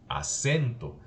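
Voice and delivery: "acento" with the CEN syllable stressed; teacher marking the spoken stress in aCENto. Shown as a demonstration. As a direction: lean on the E in "acento", then fall. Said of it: "el acento en la E".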